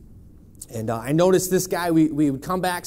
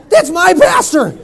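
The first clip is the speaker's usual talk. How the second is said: slow, loud laughing punchline; laughing delight; 14 dB louder, slower than usual. Retold or imitated. Soldier telling a stranger they share a pastor, laughing delight. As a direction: laugh it out in astonished joy.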